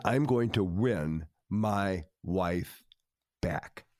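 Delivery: each word weighed, a vow; slow resolve. Retold or imitated. Husband telling the counselor he'll win his wife back, slow and resolved.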